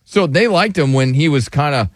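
talking through hiccups; words broken by hiccups. Real, not acted. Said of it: "I'm, uh, hiccuping".

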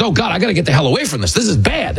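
high, fast panicky tourist; panicked tourist. Retold or imitated. Tourists fleeing the hustler, fast and panicky. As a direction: rattle it off like a scared tourist. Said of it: "they're like".

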